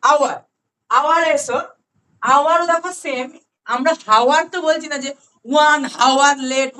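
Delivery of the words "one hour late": "one hour late" drawn out, with hour said as ওয়ার, no h; teacher's slow model sentence; slow demo. Shown as a demonstration. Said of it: "বলি না".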